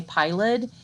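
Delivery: piled said as two syllables, pi-led. Shown as a demonstration. Teacher showing the class how to say piled, sounding the final syllable. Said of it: "accent mark over the E".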